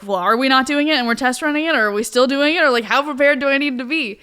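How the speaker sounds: fast, flustered and exasperated; frantic rapid questions. Retold or imitated. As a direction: rattle it off in a panic. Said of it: "And I was like".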